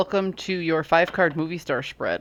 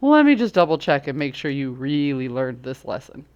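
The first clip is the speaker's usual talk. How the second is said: teasing universe voice; 5 dB louder than usual. Retold or imitated. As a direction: tease like a smug know-it-all. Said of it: "Universe is like".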